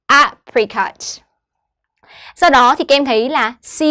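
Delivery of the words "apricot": "Apricot" with a separated, punched A-; stress on first syllable. Shown as a demonstration. Teacher repeats after explaining stress, A- stressed in "Apricot". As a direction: set A apart, then drop through "Apricot". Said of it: "âm tiết thứ nhất là A".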